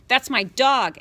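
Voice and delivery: high, loud angry scream; screamed back. Acted. Boy screaming back at his mother about the dog. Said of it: "Adam screamed back".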